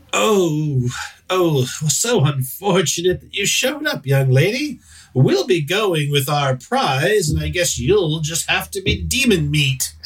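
a hint of a smug elf mocking the young lady; snooty elf. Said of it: "looks and says".

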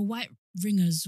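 "white ringers" with w for the r in right; "white ringers", r sounded as w; says w for r. Real, not acted. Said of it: "I can't say my R's and W's properly".

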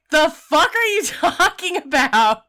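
loud, high, incredulous outburst with a laugh; high-pitched mock outrage, half laughing; retold outrage. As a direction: act out her indignant disbelief. Retold outraged reaction to insulting question.

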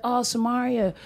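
lightly imitated tender sweet talk; a touch of lovey-dovey earnestness; mock sweet boyfriend. Comic imitates ex-boyfriend wooing her, mildly mock-sweet. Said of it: "He'd say sweet things".

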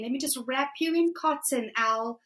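a hint of a soft smothering voice, quick; lightly voiced coaxing protector; coddling cotton voice. Her coddling inner voice offering safety, a light lulling coax. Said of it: "the cotton wrapping voice".

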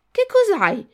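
high, loud startled question; alarmed question. Acted. Pinocchio answers his friend's cry for help, alarmed and loud. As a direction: blurt it out in acted alarm.

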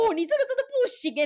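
mock dentist. Voicing the rough dentist.

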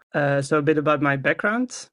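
usual speaking voice

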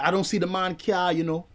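lightly imitated Jamaican patois; a hint of a badly done Jamaican; terrible Jamaican accent. Neighbour answers the visitor, light terrible Jamaican accent. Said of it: "This is a terrible accent".

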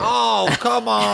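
slow, high, swooning whine; melting. Retold or imitated. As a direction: melt into a drawn-out swoon. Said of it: "I just melt".

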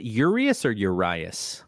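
"Urias" tried two ways, slowly; unsure pronunciation. Real, not acted. Host checks the pitcher's name with co-host, unsure pronunciation. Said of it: "the accent is on the U".

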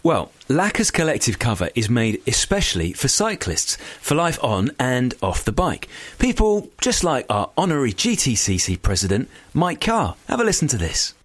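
lively sponsor announcement; scripted ad read. Acted. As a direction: sell it like a podcast promo.

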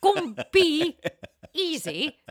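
slow, laughing mock British accent; drawn-out British accent through laughter. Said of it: "with a British accent".

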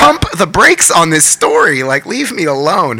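slow exasperated plea. Retold or imitated. Retold plea to drop the story.

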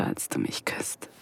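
slow, soft whisper. Acted. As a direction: savour it in a whisper. Describing a kiss intimately. (langsames, zartes Flüstern)

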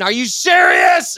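slow, drawn-out retold yell; mock yell. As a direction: yell it slowly in disbelief. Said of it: "she started yelling".

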